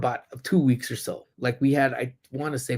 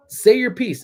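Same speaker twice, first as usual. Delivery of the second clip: challenging troll; 9 semitones higher, 6 dB louder than usual. Real, not acted.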